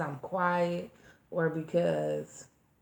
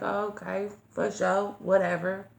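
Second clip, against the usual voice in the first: dismissive; 6 dB louder than usual. Retold or imitated. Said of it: "took it with a grain of salt".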